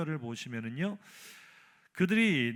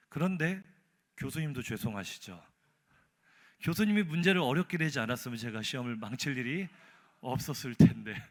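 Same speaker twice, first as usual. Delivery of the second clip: brazen blame; 2 semitones lower than usual. Retold or imitated. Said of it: "적반하장입니다".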